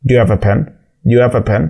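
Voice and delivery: "have" said without its H, like "ave"; "Do you have a pen" with the H in "have" silent; dropped H. Shown as a demonstration. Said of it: "أنت سمعت صوت حرف ال H؟".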